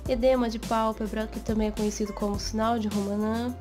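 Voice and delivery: hoarse, congested voice from a cold; stuffy cold voice. Real, not acted. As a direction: talk through a head cold, stuffed up. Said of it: "pela voz de pato, porque eu estou meio resfriada".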